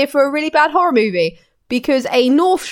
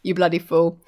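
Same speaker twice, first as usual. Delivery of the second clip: duck voice; 6 semitones lower, 4 dB quieter than usual. Retold or imitated. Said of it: "you know".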